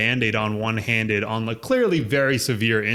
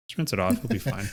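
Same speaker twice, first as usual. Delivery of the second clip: softer, offhand dad quote; dismissive dad; 3 semitones lower, 6 dB quieter than usual. Retold or imitated. Dad brushing off a bloody leg, quiet and offhand. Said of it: "he was like".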